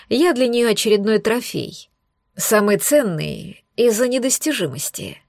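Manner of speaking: a hint of venom through the teeth; bitter, restrained; venomous, understated. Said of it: "Ядовито процедил босс".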